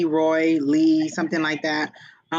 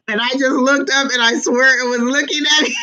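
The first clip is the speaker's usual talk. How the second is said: high, loud laughing half-scream while talking; real startled laugh, pitched way up; laughing shriek; 9 semitones higher, 5 dB louder than usual. Real, not acted. Laughing fright at a creepy doll.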